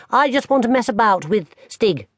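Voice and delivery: put-on a young boy explaining; small boy. Barney tells his grandmother about his fall, high little-boy voice.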